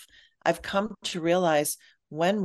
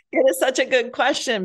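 higher and louder, bursting with real delight; 8 semitones higher, 7 dB louder than usual. Real, not acted. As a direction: gush over the question. Delighted by the host's question.

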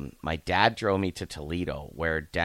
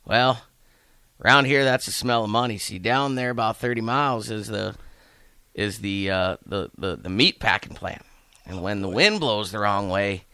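lightly voiced old Texan, louder, higher; folksy old man; 3 semitones higher, 4 dB louder than usual. Old man explaining the smell to the newcomer, light folksy voice. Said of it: "And he goes".

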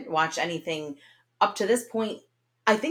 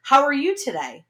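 mock scripted "How are you today?", pitched higher; stilted turn-taking; 5 semitones higher than usual. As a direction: say "How are you today?" as one isolated, rehearsed line. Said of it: "they always wait for the other person to finish".

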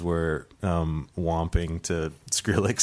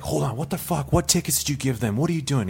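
mock angry; 7 semitones higher than usual. Club manager storms out at his own staff, mock angry. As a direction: imitate a furious boss without really shouting. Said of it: "He's, like, super angry".

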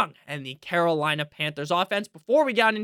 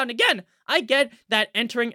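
voice cracking; 2 semitones higher than usual. Real, not acted. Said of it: "my voice just cracked again".

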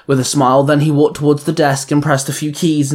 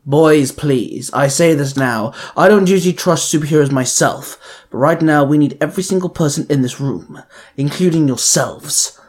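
gentle. Acted. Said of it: "Mister Pocket said gently".

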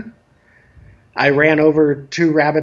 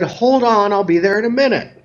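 higher-pitched mock call to another room; retold calling back; 5 semitones higher than usual. Adult answers a child yelling from the living room, lightly called out. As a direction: imitate yourself putting off a child.

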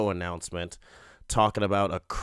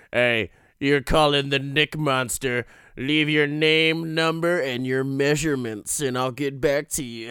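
mock sleazy voicemail greeting; 2 semitones higher, 4 dB louder than usual. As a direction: play a cheesy answering-machine lothario, tongue in cheek. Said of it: "She gives a call to the Nick Monster".

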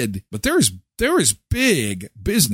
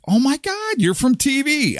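high, gushing starstruck fan; 12 semitones higher than usual. Retold or imitated. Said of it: "I totally had a freakish moment".

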